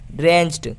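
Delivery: ड्रेंच्ड ending in "cht"; final D as T. Shown as a demonstration. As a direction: say ड्रेंच्ड as "drencht", with ट last. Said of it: "डी को हम ट पढ़ेंगे". (ड्रेंच्ड के अंत में ड की जगह ट)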